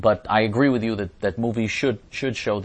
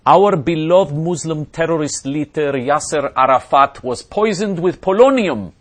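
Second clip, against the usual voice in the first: mock Arab accent, pitched up and louder; hammed-up Arab accent, raised and loud; 7 semitones higher, 9 dB louder than usual. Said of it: "Please say the following with an Arab accent".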